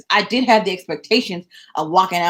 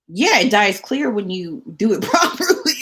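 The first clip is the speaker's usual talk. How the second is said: laughing retort; 3 semitones higher than usual. Retold or imitated.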